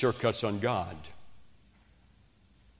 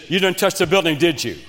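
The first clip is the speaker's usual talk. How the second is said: coach accusing; 5 semitones higher, 6 dB louder than usual. Retold or imitated. Coach confronting the player.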